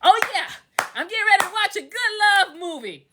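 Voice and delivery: retold eager anticipation. Speaker recalling getting ready for a love movie, mildly excited. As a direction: replay getting keen for the film. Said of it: "I'm like".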